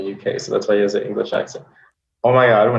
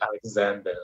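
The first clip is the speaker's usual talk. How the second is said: Alexander said the Israeli way; Israeli accent; 6 dB quieter than usual. Shown as a demonstration. Refusing the local pronunciation, Israeli-accented Alexander. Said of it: "English words in an Israeli accent".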